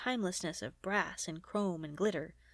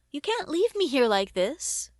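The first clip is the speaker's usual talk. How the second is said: loud, high desperate plea; pleading; 5 semitones higher, 8 dB louder than usual. Acted. Head begs Gideon not to abandon him, pleading. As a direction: beg not to be left behind. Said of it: "pleaded the head".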